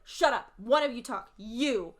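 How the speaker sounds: hammed-up annoyed customer demanding one voice. Frustrated customer silencing two cashiers, mock angry snap. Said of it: "getting really frustrated at both of us".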